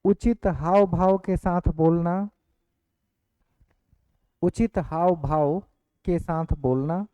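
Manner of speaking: slow, spaced out for writing down; slow dictation. Shown as a demonstration. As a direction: dictate each word clearly and slowly. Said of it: "अगला point में लिखेंगे". (धीमी गति से लिखवाना)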